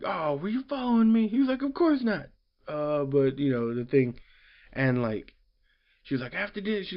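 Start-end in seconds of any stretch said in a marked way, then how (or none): 0.0-2.3 much higher playful voices; mock coy exchange. Voicing Lois and Superman. 6.3-6.9 high, softer scold; mock scolding. Voicing her scolding.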